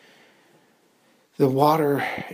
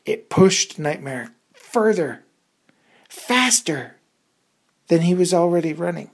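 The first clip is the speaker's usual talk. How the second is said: louder, higher and speeding up; excited rush; 5 semitones higher, 7 dB louder than usual. A narrator's reading. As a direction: race through it. Explosion pushes horse faster.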